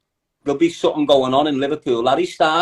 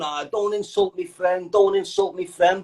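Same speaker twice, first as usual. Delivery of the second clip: slow, soft mock plea; mocking the listener defending his friend; mocking whine; 5 dB quieter than usual. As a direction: imitate a wounded friend, softly and slowly. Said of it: "you're probably sitting there going".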